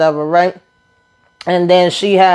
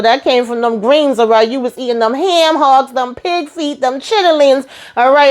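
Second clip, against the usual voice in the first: pitched higher, sassy mock-scolding mama; teasing mama voice; 5 semitones higher than usual. Mama teases the girlfriend about getting thicker, sassy and high. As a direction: tease her like a proud southern mama.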